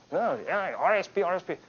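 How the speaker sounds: whiny imitation of a crybaby; mock crying. Crying member answers about R S P, mock crying. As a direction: blubber in pretend tears. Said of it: "Oh, you crying".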